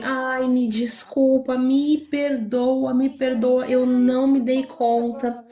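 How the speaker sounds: slow, gentle, pleading apology; apologizing with love. Retold or imitated. Apologizing to the angry girl after bumping her car, slow and tender. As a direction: soften it, say sorry slowly and tenderly. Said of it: "falei isso com tanto amor".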